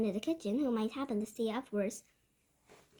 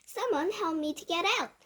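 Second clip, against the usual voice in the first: high-pitched frantic pleading; screaming; 6 semitones higher than usual. A narrator's reading. Cook begs others to free him, screaming. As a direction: cry out high for someone to help. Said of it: "the man was screaming".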